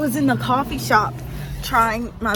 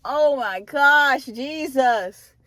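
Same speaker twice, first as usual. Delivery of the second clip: louder and very slow, overcome; awed; 3 semitones higher, 5 dB louder, much slower than usual. Real, not acted. Speaker thanking God for the office, slow and awed. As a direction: stretch it out in awe.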